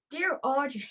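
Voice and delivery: put-on Irish letter reading; Irish accent. Host starts reading a dilemma to Audrey, Irish accent. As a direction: open the letter in playful Irish. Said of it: "Yeah, do an Irish one".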